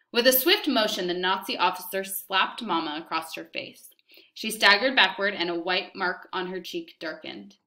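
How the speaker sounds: calm, even read-aloud voice; story narration. A narrator's reading. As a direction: read the chapter to the class. Teacher reads novel aloud to class.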